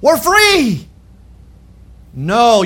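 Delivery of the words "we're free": lightly voiced gleeful Israelites, higher; a hint of the freed people cheering; mock triumphant crowd. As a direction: echo the people's cheer with raised pitch. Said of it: "They're saying".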